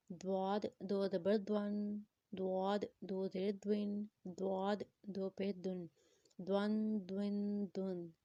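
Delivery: دواد and دون with a thick, rounded D; heavy Dwad. Shown as a demonstration. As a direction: make the D full and heavy in every دون. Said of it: "موٹا کر کے پڑھیں گے".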